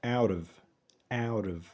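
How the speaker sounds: "out of" as "OW-duv"; "out of" linked into one word. Shown as a demonstration. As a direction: flap the t in "out of", keeping the v. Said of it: "لو عايزين نسرعها بنقول".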